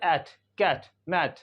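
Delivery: एट, कैट, मैट with the vowel of "cat"; open "ae" sound. Shown as a demonstration. Teacher giving example words, open ae vowel. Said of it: "ए का जो sound होता है".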